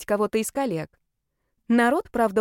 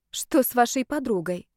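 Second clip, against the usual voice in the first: wary question; 4 semitones higher than usual. Acted. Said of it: "опасливо спросила".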